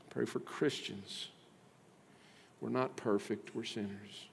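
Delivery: soft, low, hushed prayer voice. Acted. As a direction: pray quietly over the congregation. Closing prayer.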